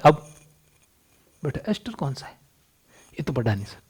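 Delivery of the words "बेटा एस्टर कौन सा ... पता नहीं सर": very soft, low-key acted question and answer; much softer, almost to yourself; hushed exam exchange. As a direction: play it under your voice, like a quiet exchange in an exam. Acts out examiner and clueless student.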